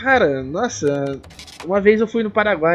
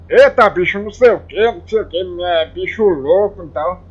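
lively mock Baiano character voice; put-on video voice; 4 dB louder than usual. Vlogger showing fans his lost video's voice, put-on voice. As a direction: put on an exaggerated "eita, bicho" voice. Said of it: "falando com uma voz mais ou menos assim".

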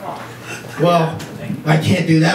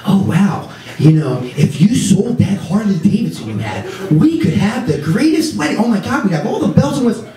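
put-on higher, gushing girly voice; gushing girlfriend; 4 semitones higher than usual. Boyfriend imitating girlfriend dreaming of wedding, gushing. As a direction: gush about the dream wedding. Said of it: "Or she'll go".

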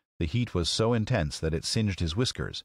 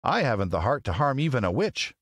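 high-pitched character voice; Tin Woodman; 6 semitones higher than usual. Acted. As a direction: speak high as a tender-hearted tin man. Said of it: "remarked the Tin Woodman".

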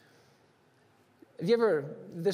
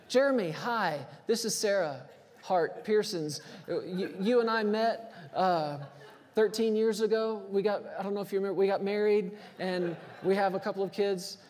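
mock formal self-introduction. Wife mock-introducing herself on phone.

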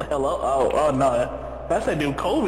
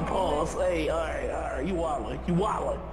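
whispering on the phone; 8 dB quieter than usual. Real, not acted. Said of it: "Why you whispering".

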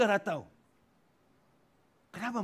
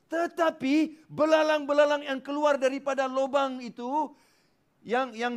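higher, louder proclamation; emphatic preaching; 8 semitones higher, 6 dB louder than usual. Real, not acted. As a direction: build the point forcefully.

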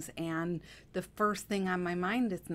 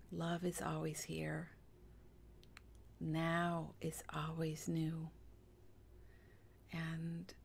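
soft, hushed affirmations with long pauses; guided meditation; 8 dB quieter than usual. Acted. Guide asking angels for help, soft meditative prayer. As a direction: murmur a calm, unhurried prayer.

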